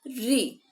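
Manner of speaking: "री" as a clear, isolated "ri"; pronunciation model. Shown as a demonstration. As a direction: model the sound "री", saying "ree". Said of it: "इसका उच्चारण री होता है".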